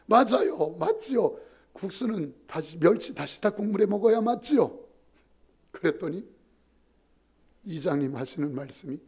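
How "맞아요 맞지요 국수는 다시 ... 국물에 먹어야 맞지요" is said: triumphant. Retold or imitated. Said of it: "기세등등 해가지고".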